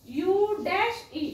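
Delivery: slow teacher's recitation of the rule; slow spelled-out rule. Shown as a demonstration. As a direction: rule read out slowly. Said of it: "आपला नियम काय सांगतो आपल्याला?".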